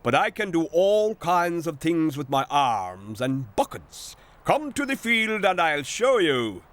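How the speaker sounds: boasting. Acted. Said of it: "he boasted".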